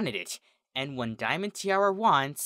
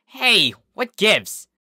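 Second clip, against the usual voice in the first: loud, high, stammering complaint, last words dragged out slowly; indignant protest; 8 semitones higher, 7 dB louder than usual. Acted. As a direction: protest hotly at the unfair machine. Angry at the cheating claw machine.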